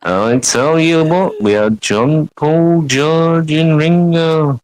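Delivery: put-on lightly done Liverpool accent; a hint of cheery Scouse band member; playful Liverpool musician voice, only lightly shifted; impression of a singer. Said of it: "Doing an impression of a band".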